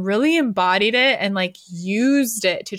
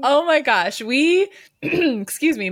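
rusty voice clearing throat; rusty voice, unused for weeks; 5 semitones higher, slower than usual. Real, not acted. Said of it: "my voice is rusty".

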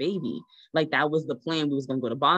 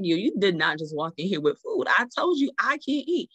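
tag-less scolding; 3 semitones higher than usual. Retold or imitated. Scolding partner who brought food.

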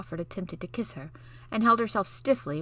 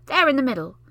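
put-on higher, louder little-boy voice; boy's eager suggestion; 6 semitones higher, 9 dB louder, faster than usual. Basil proposing a game to Mary, eager boy voice.

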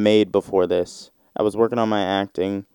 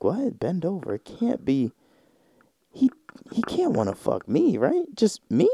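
baffled dude; 9 semitones higher, 6 dB quieter than usual. Retold or imitated.

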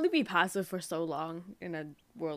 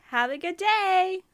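high, slow, sugary-sweet politeness; customer service voice; 10 semitones higher, 6 dB louder, slower than usual. Retold or imitated. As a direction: fake nice to a rude customer. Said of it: "You see that tone?".

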